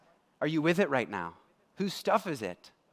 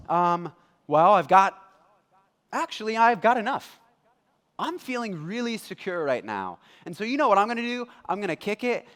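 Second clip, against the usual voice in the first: loud, eager bragging about his barns; boastful rich man; 2 semitones higher, 5 dB louder than usual. Acted. Preacher playing the rich fool, loud and bragging. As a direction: puff up like a man who has it all.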